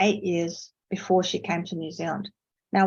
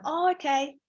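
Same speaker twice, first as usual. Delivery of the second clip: polite caller; 5 semitones higher than usual. Retold or imitated. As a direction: courteously sign off the call. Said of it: "You'd have to say".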